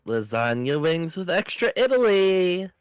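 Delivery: loud, grand waitress announcement. Acted. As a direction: present the dish like a proud server. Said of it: "you do the waitress".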